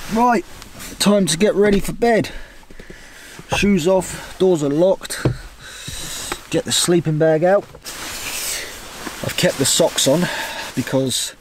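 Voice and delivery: chirpy getting-ready narration; cheery bedtime voice. Real, not acted. Getting into sleeping bag.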